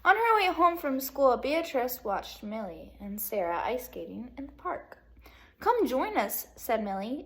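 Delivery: lively read-aloud to second graders; bright classroom storytelling; storybook reading. Acted. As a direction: read it like story time for kids.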